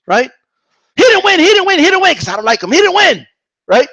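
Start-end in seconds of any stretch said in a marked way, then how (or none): 1.0-3.3 high, insistent repeated protest; hammed-up stubborn denial; mock tantrum. Vlogger parrots a fan who dislikes Ward, mock tantrum.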